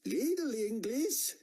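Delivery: high, slow, halting foreign barman voice; a big barman feeling for each English word; slow and high, barely speaks English. A narrator's reading. Barman's broken English reply.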